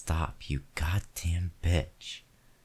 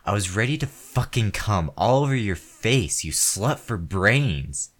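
loud, raging tirade, higher and louder; enraged man yelling at the woman who stopped; furious shouting; 3 semitones higher, 6 dB louder than usual. Acted. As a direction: scream it at her in full fury. Escalating furious rant at partner.

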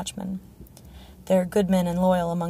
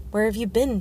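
demanding; 3 semitones higher than usual. Acted. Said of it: "Tyrion demanded".

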